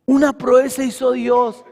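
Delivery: preaching. Real, not acted. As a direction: preach with force, leaning on key words. Preaches to congregation. (prédica enérgica y enfática)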